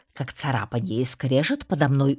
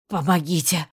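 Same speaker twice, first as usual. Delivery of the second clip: hoarse croak; 4 semitones higher, 3 dB louder than usual. A narrator's reading. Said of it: "прохрипел я".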